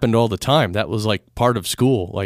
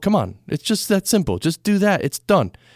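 breezy, offhand dismissive tone, pitched up; 8 semitones higher than usual. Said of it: "when I say it like it's so simple".

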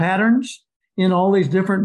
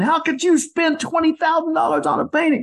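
high, play-acted, raving, outraged ranting scream; 8 semitones higher than usual. Retelling a husband furious about a painting's price: imitating a husband screaming and ranting. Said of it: "he's ranting and he's raving and he's screaming".

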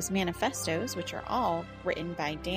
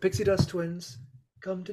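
acted sinister wizard voice; 3 dB louder than usual. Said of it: "that's exactly how he sounds".

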